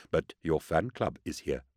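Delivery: teasing murmur. A narrator's reading. Rassi warning his friend about the admirer, quiet murmur. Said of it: "Rassi murmured".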